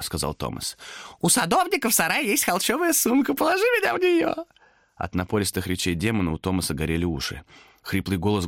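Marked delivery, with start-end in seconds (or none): 1.2-4.3 shout, hurrying him on; high urgent demon. Acted. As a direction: demon hurries Thomas after peddler. Demon commanding.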